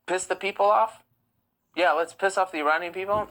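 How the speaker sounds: incredulous, rising mock proposal; sarcastic suggestion. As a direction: float an absurd motive as a sarcastic question. Mockingly voices a supposed motive.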